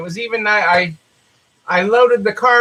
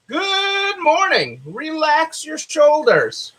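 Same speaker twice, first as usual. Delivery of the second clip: slow, high, soothing read-aloud; gentle book reading; 5 semitones higher, slower than usual. Acted. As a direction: ease the listener into relaxing, slowly.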